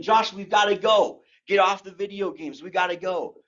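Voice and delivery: mock yell for a child; retold mom's yell. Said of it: "she would yell my name".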